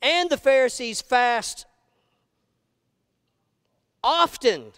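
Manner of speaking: slow, pointed, lifted question; questioning disciples. Retold or imitated. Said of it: "disciples of John came to him".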